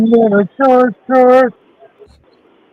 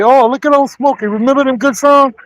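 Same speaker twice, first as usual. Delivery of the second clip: mock nostalgic; 5 semitones higher than usual. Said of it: "that say".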